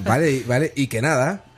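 casual put-on Castilian accent; lightly imitated Spain accent; mock Spain accent. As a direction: toss off Spanish fillers like a Spaniard. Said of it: "Eso es muy español".

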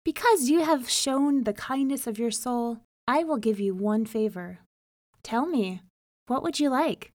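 a grand river spirit offering a favor; solemn spirit Tombo; fish spirit. Acted.

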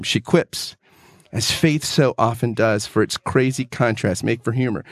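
measured, heartfelt book reading; reading a favorite book passage aloud to a co-host; earnest reading aloud. Acted. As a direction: read it like a treasured passage.

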